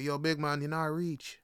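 lightly imitated Jamaican passerby; a hint of Jamaican lilt, said offhand; Jamaican accent. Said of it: "It's like".

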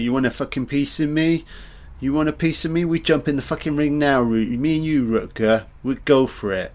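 hammed-up tough-guy taunt, a bit fast; playful imitation of a pub-fight dare; Pete's challenge. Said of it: "Pete's like".

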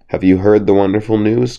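sly fox gushing good news; joyful and excited. A narrator's reading. Fox lures the cock down, joyful and excited. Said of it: "cried the fox in a very joyful and excited manner".

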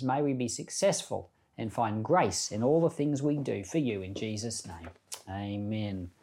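soft, earnest spoken prayer to God; quiet prayer. Real, not acted. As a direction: pray it gently and sincerely. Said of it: "we're gonna have a quick prayer".

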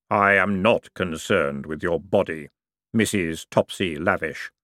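slow, grave voice of Death. Acted. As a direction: let every word fall slowly and solemnly. Death speaks to Topsy.

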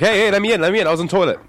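high, loud pleading call; panicked plea. Retold or imitated. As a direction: beg to be let in. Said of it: "you're like".

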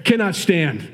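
lightly faked Irish accent; half-hearted mock Irish; poor Irish accent. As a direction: finish in a rough Irish accent. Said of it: "I'll go back to Midwest accent".

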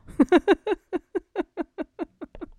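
high laugh falling away; giggling fit after the joke; long laugh. Real, not acted. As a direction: keep laughing at the punchline.

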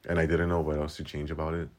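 holding back a burp; talking through a burp. Real, not acted. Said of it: "Oh my God, I'm burping".

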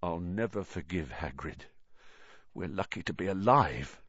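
quiet, shaken and sick; drained, bitter mutter; weak. A narrator's reading. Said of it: "said Ron weakly".

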